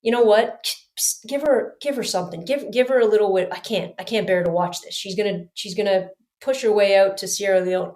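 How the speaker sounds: a hint of a weary god looking down; Mother Nature voice. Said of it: "kinda going".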